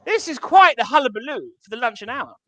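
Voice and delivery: posh English gent. Retold or imitated. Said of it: "I was like".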